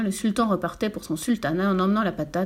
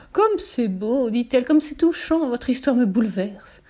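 higher, moved exclamation; gushing; 3 semitones higher, slower than usual. Acted. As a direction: gush as if deeply touched. Guitar/potato gushes over story.

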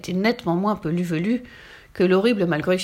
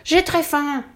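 high, drawn-out hungry yell; howling; 8 semitones higher, 4 dB louder, slower than usual. A narrator's reading. Starving ogre among the frogs, howling. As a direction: wail it with mouth wide open. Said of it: "hurla Zéphirin, la bouche grande ouverte".

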